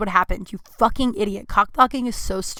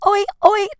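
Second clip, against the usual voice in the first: high, loud British-style oi oi; mock oi yell; 11 semitones higher, 8 dB louder than usual. Imitating a singer begging for attention, loud mock oi. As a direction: bark it to grab the crowd. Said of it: "he's like".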